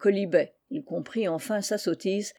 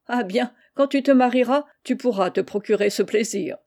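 general laughing; 4 semitones higher, 4 dB louder than usual. Acted. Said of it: "Le général riant".

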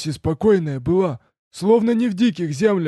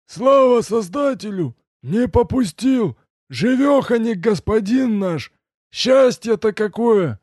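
overjoyed; 9 semitones higher, 4 dB louder, slower than usual. A narrator's reading. Servant rejoices master is alive.

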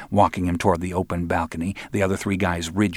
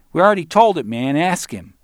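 put-on high, loud young punk's comeback; impatient retort; 9 semitones higher, 6 dB louder than usual. Barry answers Roland, impatient high retort. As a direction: push back, fed up with the question.

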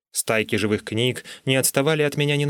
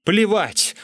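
high, defiant objection; obstinate, pitched-up comeback; stubborn retort; 10 semitones higher, 3 dB louder than usual. A narrator's reading. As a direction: dig your heels in, voice raised in pitch. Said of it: "упрямо возразил я".

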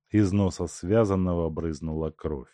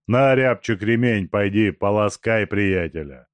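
joking; 2 semitones higher, 6 dB louder than usual. Acted. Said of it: "сострил Тумба".

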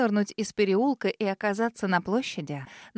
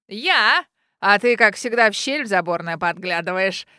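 laughing; 3 semitones lower, 6 dB louder than usual. A narrator's reading. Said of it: "Расхохоталась бабуля".

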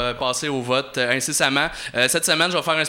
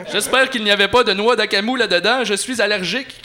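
higher and louder, spitting the words; spat out; 6 semitones higher, 5 dB louder than usual. Acted. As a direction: hurl it at him like a prissy clerk. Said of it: "cracha-t-il".

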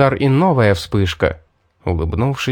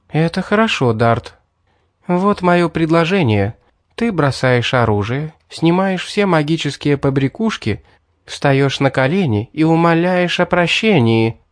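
slightly raised pitch for a demanding huntress; lightly voiced Mary, commanding; 4 semitones higher than usual. Mary giving Dart her terms of surrender, lightly voiced and higher.

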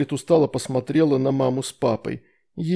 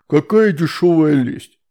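1 scoffing demon; 2 semitones higher, 6 dB louder, slower than usual. A narrator's reading.

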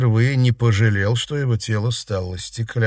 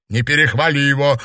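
louder, higher stern warning; 4 semitones higher, 5 dB louder than usual. A narrator's reading. Jealous girl warning her rival off, stern. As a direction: cut in severely. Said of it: "сурово сказала Ирина".

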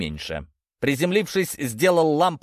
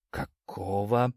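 slow, softer puzzled mutter; 3 semitones lower, 5 dB quieter, much slower than usual. A narrator's reading. Narrator alone facing the dark tunnel, slow quiet mutter. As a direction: draw it out low under your breath. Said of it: "пробормотал я".

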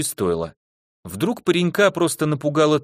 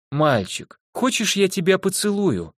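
сладко пропетое «поцелую», бархатным голосом; velvety sing-song; 8 semitones higher than usual. A narrator's reading. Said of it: "бархатным голосом пропела Елена". (бархатный напевный голос)

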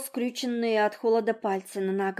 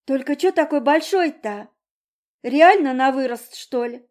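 sardonic question; 5 semitones higher, 8 dB louder than usual. Acted. Girl questioning father.

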